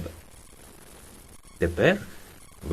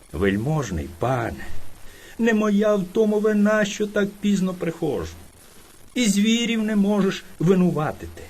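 most polite. Acted. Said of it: "промовив, як міг, найчимніше".

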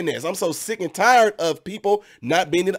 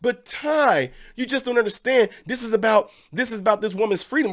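higher pleading objector voice; mock critic; 4 semitones higher than usual. Vlogger imitating viewers, whiny protest. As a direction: whine it like a viewer who won't listen. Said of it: "you guys might say something like".

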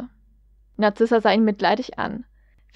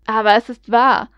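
louder, pleading outcry; desperate cry; 6 dB louder than usual. Acted. Draco cries out desperately to his disbelieving parents, louder. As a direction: cry it out in despair. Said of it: "rief Draco verzweifelt".

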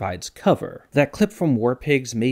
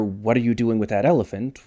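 main accent on ELEPHANT, rising question; stress on ELEPHANT. Shown as a demonstration. Comparing six questions for viewers, stress on ELEPHANT. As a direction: lean on the final word ELEPHANT. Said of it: "where you place the accent".

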